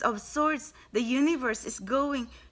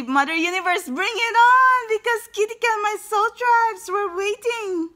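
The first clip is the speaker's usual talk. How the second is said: emotional outcry; 9 semitones higher, 8 dB louder than usual. Real, not acted. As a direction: cry it out to the universe, overwhelmed. Emotional climax of the reading.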